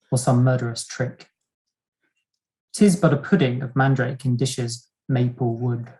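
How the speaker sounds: put-on measured, theatrical reading of old stage verse; a gently hammed-up period-drama reading; Restoration drama reading. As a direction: read it like a Restoration play, savouring the archaic words. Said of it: "someone reading this for me".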